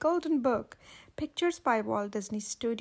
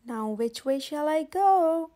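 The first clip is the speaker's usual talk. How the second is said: wondering Alice; 3 semitones higher, 4 dB louder, slower than usual. Acted. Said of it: "Alice wondered".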